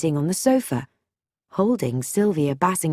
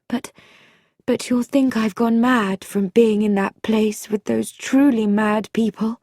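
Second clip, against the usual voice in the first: lightly voiced hesitant woman, pitch a little raised; a hint of nervous confiding, with halts; anxious young woman; 3 semitones higher than usual. Visitor confides in Bobby, lightly voiced anxious woman.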